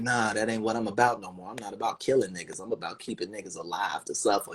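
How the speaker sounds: low, quiet menacing Russian boss; a hint of a cold Russian strongman; Putin voice.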